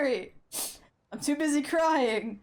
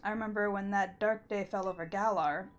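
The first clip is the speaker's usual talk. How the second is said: lightly voiced old king. Reads AZ's farewell monologue.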